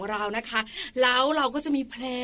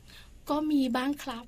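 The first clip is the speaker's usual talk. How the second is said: sheepish admission; 7 dB quieter, much slower than usual. Retold or imitated. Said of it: "คุณพ่อแบบว่าสตันไปสามวิ".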